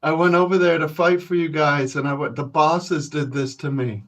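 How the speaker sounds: hammed-up injured victim; beaten union guy. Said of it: "he'd be like".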